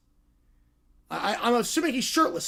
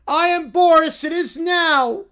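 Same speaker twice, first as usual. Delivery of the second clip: Boris voice; 3 semitones higher, 5 dB louder than usual. Acted. Group improv, referee character.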